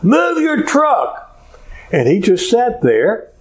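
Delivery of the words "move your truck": high, drawn-out mock yell; retold yelling. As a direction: yell it slowly like the irate driver being imitated. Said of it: "She starts yelling at him".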